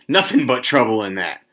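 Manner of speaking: put-on stoutly insistent old man. A narrator's reading. Old man Warner correcting talk of quitting, stout. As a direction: declare it firmly, with mild force. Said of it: "Old Man Warner said stoutly".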